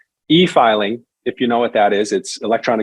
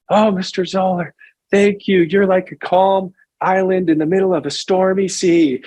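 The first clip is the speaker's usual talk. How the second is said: mock-dreamy thanks in a raised voice; imitated relieved client; 8 semitones higher than usual. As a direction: play a grateful caller with a weight lifted. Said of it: "the weight lifted off her shoulders".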